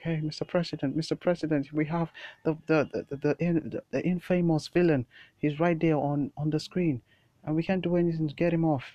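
high, loud alarmed report; panicked secretary. Acted. Secretary alerting the president, high loud panic. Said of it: "the secretary was like".

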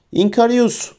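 high-pitched spell cry; shouted. A narrator's reading. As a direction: cast it with a high acted call. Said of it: "diye bağırdı". (tiz sesle bağırarak)

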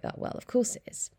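quick breathy half-whisper, knowing; dry aside. Retold or imitated. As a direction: toss it off under the breath, like it's obvious. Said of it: "And I was like".

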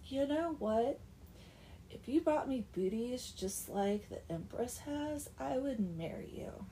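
put-on mean girl. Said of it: "totally mean girls with Oksana".

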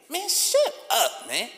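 high, loud and drawn-out shut up; angry shout. Acted. To rappers who talk tough, a loud angry shout. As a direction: yell it down at them, slow and furious. Snapping back at complaining rappers.

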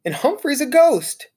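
put-on high, loud kids' shouting; excited shouts. Classmates shouting as the ghost appears. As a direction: call out in delight. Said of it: "shouts of".

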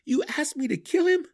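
high, loud outraged question; angry challenge. A narrator's reading. Drizzt confronts Belwer over killing Clacker, angry challenge. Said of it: "Drizzt growled".

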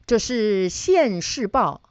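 slow, drawn-out mock pronouncement; lightly acted mother, stretching each word; mother's retort. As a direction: pronounce it slowly, imitating mother's verdict. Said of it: "我妈妈立刻说".

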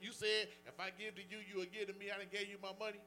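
retold indignant complaint. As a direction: argue your case like you were cheated. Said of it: "I'm like".

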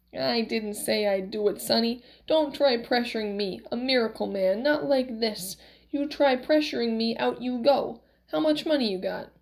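lightly voiced crotchety old man; a touch of indignant old-man bluster; Max, cranky miracle man, warning. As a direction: warn off a pushy customer.

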